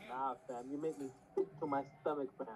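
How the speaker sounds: lightly imitated Toronto accent. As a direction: slip into mild Toronto slang accent. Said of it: "I do not wanna hear that Toronto accent".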